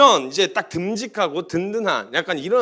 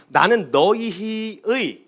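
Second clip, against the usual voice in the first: voice of God; much slower than usual. Acted. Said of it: "하나님이 수도 없이".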